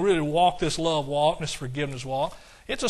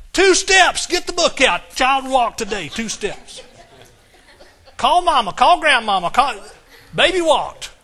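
much higher and louder, overjoyed calling out; thrilled parent; 6 semitones higher, 9 dB louder than usual. Retold or imitated. Parents calling relatives about baby's first steps, thrilled. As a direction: announce the first steps to the whole family. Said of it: "like we do when our kids start walking".

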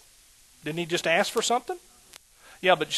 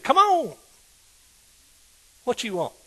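loose Jesus voice; 5 semitones higher, 4 dB louder than usual. Pretend. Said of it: "not exactly like that".

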